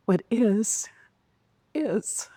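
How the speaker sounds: a calm voice settling it. Retold or imitated. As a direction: breathe the last word out. Inner voice answers her anger.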